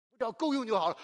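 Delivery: mock self-pity, settling for 够用; mock meek self-pity. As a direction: play the small-minded poor believer, mildly. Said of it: "不要总是觉得".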